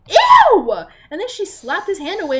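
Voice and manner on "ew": loud, high grossed-out ew; real shout of disgust. Real, not acted. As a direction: yell your disgust. Ranting about consent scene.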